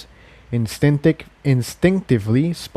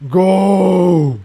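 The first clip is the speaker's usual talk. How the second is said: louder, higher commanding shout; 6 semitones higher, 4 dB louder than usual. A narrator's reading. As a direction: drown out every other thought. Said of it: "it shouted".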